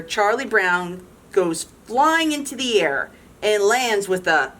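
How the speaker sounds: lively storybook read-aloud; animated picture-book narration; reading to children. A narrator's reading. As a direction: read it to a room of kids.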